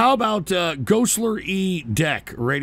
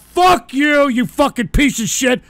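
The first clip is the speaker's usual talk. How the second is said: angry cursing; 4 semitones higher than usual. Real, not acted. Host cursing out the prank caller, angry. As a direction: bite back at the caller.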